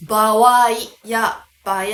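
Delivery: 場合 said first as bawai then as baee, slowly; colloquial forms. Shown as a demonstration. Teacher recapping casual forms, 場合 as bawai and baee. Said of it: "確かに口語では通じますが".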